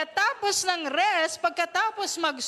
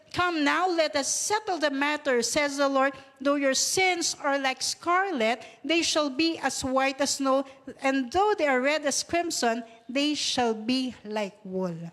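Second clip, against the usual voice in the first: scripture reading. Acted. Pastor reading Isaiah to the congregation, solemnly proclaimed. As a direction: proclaim the verse slowly.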